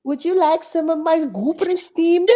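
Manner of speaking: high put-on voice, far from her own; dad impression. Daughter imitating her dad offering his food, high mock voice. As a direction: ham up a fussy dad offering a snack. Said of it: "my dad said he was just like".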